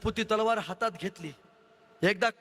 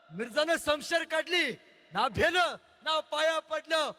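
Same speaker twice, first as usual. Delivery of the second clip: excited messenger; 4 semitones higher than usual. Acted. Messenger runs in with news.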